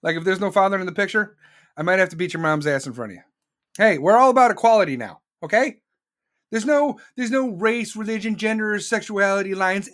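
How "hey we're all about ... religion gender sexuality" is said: loud sarcastic. Real, not acted. Sarcastic equality rant.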